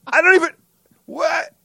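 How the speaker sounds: sputtering high through laughter; laughing disbelief. Real, not acted. Host protesting being called a fraud, laughing disbelief.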